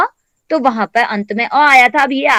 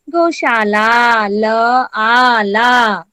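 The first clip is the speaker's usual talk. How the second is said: syllable by syllable; 3 semitones lower, much slower than usual. Shown as a demonstration. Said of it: "तो ये क्या हो गया?".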